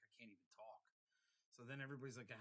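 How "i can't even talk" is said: voiceless croak. Retold or imitated. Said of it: "I had no voice".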